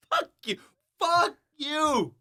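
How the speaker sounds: high, loud laughing retort; laughing fuck you. Real, not acted. Laughing comeback to teasing.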